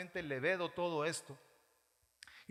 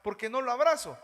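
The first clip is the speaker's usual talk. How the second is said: mock whine; 3 semitones higher, 4 dB louder than usual. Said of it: "déjese ya de estar llorando".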